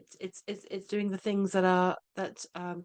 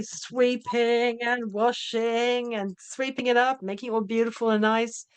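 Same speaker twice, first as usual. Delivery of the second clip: drawn-out listing; 3 semitones higher, slower than usual. Retold or imitated. Acting out the busy cleaning.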